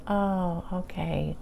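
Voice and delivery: retold sigh of relief, softly trailing away; settling down. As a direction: let it drop softly as if calmed. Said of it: "that just settles me right down".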